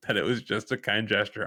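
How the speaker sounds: giggling through the words; real laugh breaking in; laughing while talking. Real, not acted. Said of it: "I'm laughing because".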